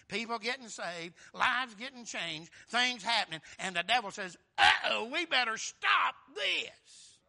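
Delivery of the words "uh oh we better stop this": loud, high, drawn-out warning; mock alarm. Preacher voicing the devil as lives get changed, mock alarm. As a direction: sound the alarm, slow and loud.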